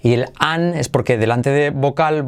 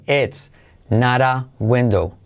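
slow model sentence. Shown as a demonstration. Teacher slows down for learners, careful model. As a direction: spell it out slowly for students. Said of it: "I como E".

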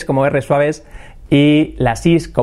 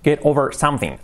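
slow demo. Shown as a demonstration. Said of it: "superar un problema".

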